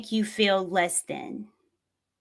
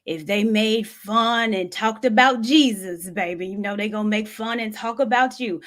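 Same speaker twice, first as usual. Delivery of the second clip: Southern Baptist saying. Retold or imitated. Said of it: "that Southern Baptist saying".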